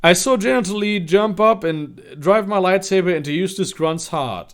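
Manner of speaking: high-pitched, animated read-aloud; story narration. Acted.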